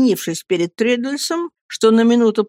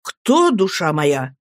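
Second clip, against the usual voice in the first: slow, tender asking; tender question; 2 semitones lower, slower than usual. Acted. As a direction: ask her gently and slowly. Lover gently asks.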